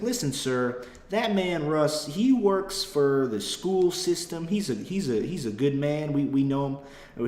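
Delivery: high, slow Southern cop drawl; mock rural Southern accent; country cop accent. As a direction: vouch for the neighbor like a folksy Southern cop. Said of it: "heavy, stupid country accents".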